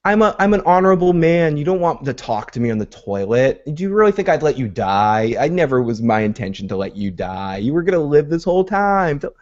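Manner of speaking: high, smooth-talking sales pitch to save himself; slick-tongued pleading. Retold or imitated. Father talking to the son about to kill him, slick and coaxing. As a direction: imitate a gold-tongued talker, stretching out the final plea. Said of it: "selling the, that slick tongue, that gold tongue of his".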